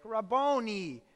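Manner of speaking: a touch of Italian in the Aramaic; Italian-sounding cry. Acted. Mary recognising Jesus at the tomb, Italian-sounding cry. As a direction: cry it out with a light accidental Italian lilt. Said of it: "That sounded Italian".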